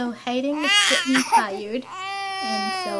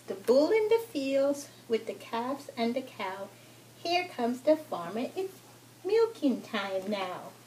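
lilting picture-book narration; children's story reading; 4 dB quieter than usual. Acted. Mother reads a farm book to her toddler, children's story reading. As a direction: read rhymes to a toddler.

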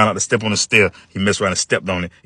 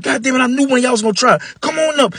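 put-on angry old man. Old man catching the boys, angry high shout. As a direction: yell down the stairs like a furious old man.

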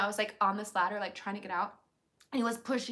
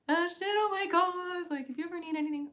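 high, choked-up sympathy; emotional; 8 semitones higher, 4 dB louder than usual. Retold or imitated. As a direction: pour out concern. Retold emotional voice memo.

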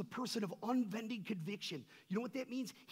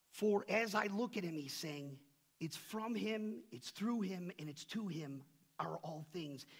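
reading scripture aloud; 3 dB louder than usual. Acted. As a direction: lift the verse up to the congregation. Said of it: "It says this".

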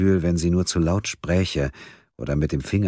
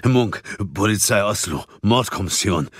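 hastily slurred, higher-set mumble; mumbled; 4 semitones higher than usual. A narrator's reading. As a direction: mumble your credentials in passing. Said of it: "nuschelte Munk". (nuschelnd, im Vorbeigehen)

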